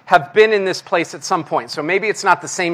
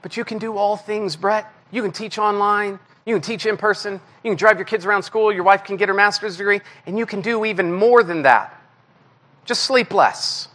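soft, quiet, patient urging; gentle voice of God; 5 dB quieter than usual. Retold or imitated. God gently pushing the tired pastor, softly. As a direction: coax him like a kind father. God's voice answering Brett.

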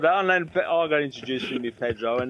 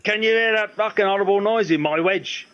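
a rock singer's voice; 7 semitones higher, 4 dB louder than usual. Retold or imitated. The singer complaining at soundcheck.

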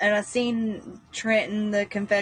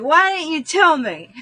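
put-on upset child; 6 semitones higher, 5 dB louder than usual.

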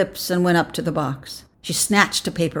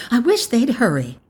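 higher-pitched repeat of the wish; more insistent; 7 semitones higher, 4 dB louder than usual. A narrator's reading. Mother frets to her older son, higher and impatient. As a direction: press it with rising impatience.

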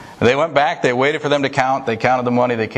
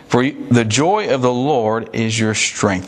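slow scripture reading; slower than usual. Shown as a demonstration. Preacher reading scripture verse.

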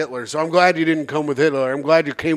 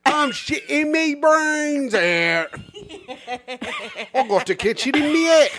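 higher, slow hammed-up cockney moan; mock cockney; 9 semitones higher than usual. Joking that diphtheria makes you British, hammed-up cockney. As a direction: play a sick Victorian Londoner in cockney.

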